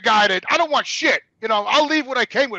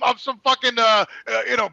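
ordinary talk

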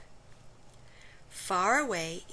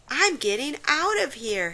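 louder, higher panicked exclamation; frightened cry; 6 semitones higher, 8 dB louder than usual. Acted. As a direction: flee in a panic. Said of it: "he cried".

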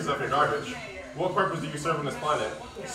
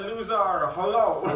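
higher, laughing mock of the opponent; mocking imitation; 6 semitones higher than usual. Mocking the other player's greeting, light high imitation. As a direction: squeak it out to tease him. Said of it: "He said".

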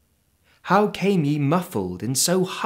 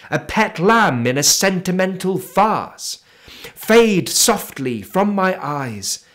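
impassioned farewell; 3 semitones higher, 4 dB louder than usual. Acted. Poet sending the three ghosts away, ringing loud farewell. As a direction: cry the farewell out with fervour.

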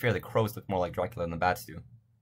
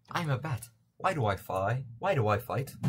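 lightly voiced anguished bat; bat in existential crisis; 4 semitones higher than usual. Bat questioning why it flies, mock existential crisis. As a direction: plead mildly as a confused bat. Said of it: "he's having an existential crisis".

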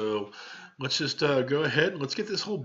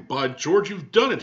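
louder, delighted exclamation; crying out; 4 semitones higher, 7 dB louder than usual. Acted. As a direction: burst out in delight. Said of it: "he cried".

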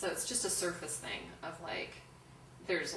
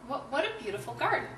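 friendly compliment, repeated; 6 semitones higher, 5 dB louder than usual. Retold or imitated. Repeats friendly compliment to rude lady.

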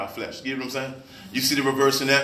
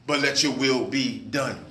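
slow, word-by-word submission; slow surrender; 3 semitones lower, slower than usual. Acted. Praying to God against one's own wishes, slow surrender. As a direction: space out each word, giving in to God.

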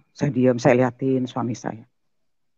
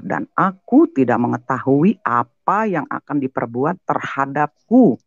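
slow scripture quote; slower than usual. Retold or imitated. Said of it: "Dia bilang begini".

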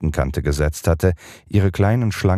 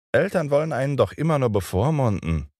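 put-on a touch of scorn in a higher boyish voice; contemptuous; 9 semitones higher than usual. A narrator's reading. Peter scoffs at parents, mild scornful boy voice. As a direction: sneer lightly at the grown-ups. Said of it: "mit einem verächtlichen Gesichtsausdruck".

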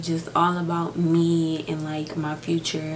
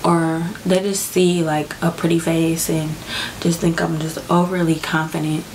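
real crying. Real, not acted. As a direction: speak while really crying, pushing through. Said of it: "why I'm crying right now".

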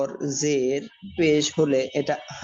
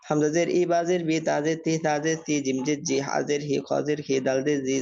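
rhythmic, even-toned letter-by-letter spelling drill; recitation drill. Shown as a demonstration. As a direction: chant out the letters evenly for learners to follow.

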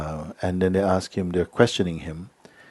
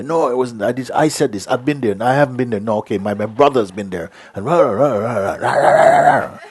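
louder babbling of excuses into rah rah; mock proud excuses; 4 semitones higher, 6 dB louder than usual. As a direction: parody the blustering self-justifier. Mocking proud people's excuses.

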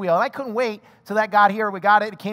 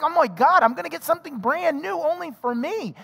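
elated; 6 semitones higher than usual. Retold or imitated. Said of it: "I was elated".

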